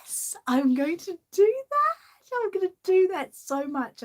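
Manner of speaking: giddy high whisper, plotting; hushed and thrilled, scheming a prank; conspiratorial giddy whisper; excited whisper. Real, not acted.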